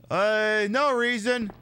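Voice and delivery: high, knowing little reply; sly Ada. Pretend. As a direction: brush it off slyly.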